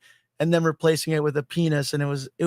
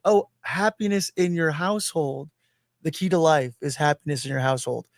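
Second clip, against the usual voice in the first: put-on French accent; 2 semitones lower than usual. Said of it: "But with his French accent".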